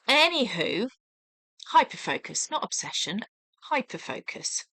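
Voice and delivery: hiccups jolting the words; talking through hiccups. Real, not acted. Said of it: "Please excuse the hiccups".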